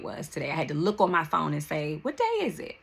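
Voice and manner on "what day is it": confused. Retold or imitated. Quoting herself, confused.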